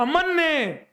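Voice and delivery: loud, high-pitched name call; emphatic proud shout. Real, not acted. Proudly calling out the claiming student's name. (ज़ोर से, ऊँची आवाज़ में)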